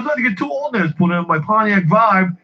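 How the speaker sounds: high-pitched retold complaint, mildly heated; mock screaming customer. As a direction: imitate a customer ranting at the clerk. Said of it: "he starts screaming at her".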